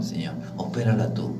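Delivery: soft pleading whisper; whispered prayer. Acted. Preacher praying over the frightened woman, whispering. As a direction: whisper it to God, intimate.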